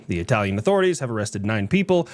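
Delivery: put-on weak Italian accent on every word; a half-hearted Italian accent, barely there. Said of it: "I'm not great at my Italian accent".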